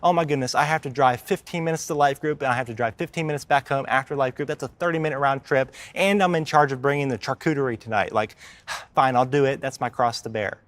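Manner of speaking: mock put-upon whine about coffee; lightly mocking a complainer; whiny complaint. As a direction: play a petty churchgoer sighing over a small chore. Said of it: "I hear people say".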